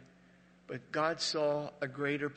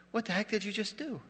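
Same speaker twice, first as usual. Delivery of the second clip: angry retort; 7 semitones higher than usual. Retold or imitated. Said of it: "I got this anger".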